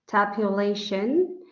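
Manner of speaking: tabulation, slowly, with TAB and TION leaned on; stress on first and last syllable. Shown as a demonstration. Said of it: "the first syllable and the last syllable".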